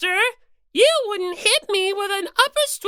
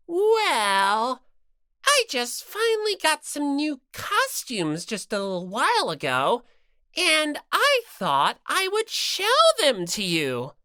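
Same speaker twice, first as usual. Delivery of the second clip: lower, fidgety bashful bear; low coy mascot; 7 semitones lower than usual. Acted. Bear mascot coyly showing off new costumes, low. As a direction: sound shy but proud of the costumes.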